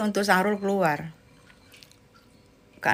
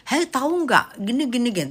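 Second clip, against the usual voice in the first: gossip demo; 2 semitones higher than usual. Shown as a demonstration. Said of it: "Tuh gibah".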